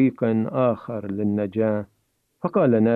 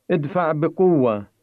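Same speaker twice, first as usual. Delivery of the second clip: mild narrated shout; 5 semitones higher than usual. A narrator's reading. Samir urges Nader to push hard, mild shout. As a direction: read as an understated urgent shout. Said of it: "فصاح سمير".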